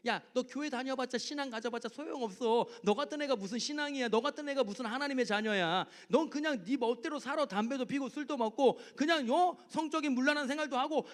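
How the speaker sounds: 조롱하며 부추기는 마귀 목소리; 깔보듯 꼬드기는 마귀; 비웃는 마귀. Retold or imitated. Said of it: "끊임없이 마귀가 유혹하는 거야". (비웃으며 유혹하는 마귀 흉내)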